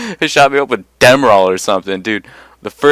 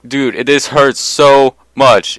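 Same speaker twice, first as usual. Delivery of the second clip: retold pain plea; 4 semitones higher, 5 dB louder, slower than usual. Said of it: "I'm like".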